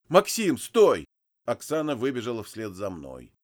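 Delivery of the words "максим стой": calling out. Acted. Oksana runs after him.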